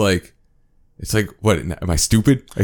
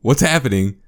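much higher and louder, fed up; showing his friend how it makes him mad, raised voice; exasperated outburst; 5 semitones higher, 6 dB louder than usual. Real, not acted. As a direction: let the frustration burst out. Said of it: "you're confusing me and I'm getting pissed off".

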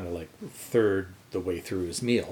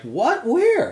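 higher, louder startled questions; alarmed disbelief; 8 dB louder than usual. Retold or imitated. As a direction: snap round looking for it. Friends react to mouse sighting.

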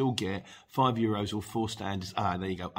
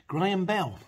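calling out; 9 semitones higher, 5 dB louder, slower than usual. Real, not acted. Calling out next sender.

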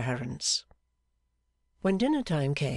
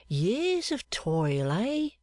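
higher and slow, coaxing; coaxing fortune-teller; 6 semitones higher, much slower than usual. Acted. Clerk asking the seamstress for her palm, coaxing slowly. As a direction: draw her hand out slowly.

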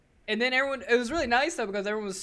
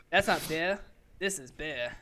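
badly faked Australian accent; horrible Australian accent; 3 semitones lower than usual. Joking about the Foster's can, bad Australian accent. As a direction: put on a clumsy Aussie accent. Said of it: "That was a horrible Australian accent".

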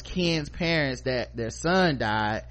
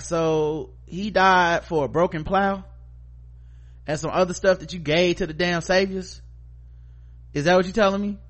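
angry mother; 5 semitones higher than usual. Retold or imitated. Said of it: "Tammy was like".

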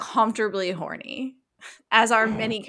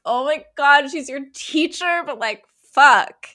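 flustered excitement; 5 semitones higher, 7 dB louder than usual. Retold or imitated. Her reaction to the sexy scene.

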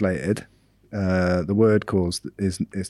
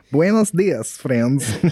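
Russian accent; 4 semitones higher, much slower than usual. Shown as a demonstration. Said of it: "speak another language with a Russian accent".

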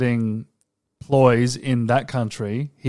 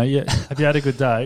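mildly posh South Australian small talk; lightly polite South Australian voice; posh South Australian accent; faster than usual. Retold or imitated. Showing co-host the nicer accent, posh South Australian. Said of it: "a bit more posh".

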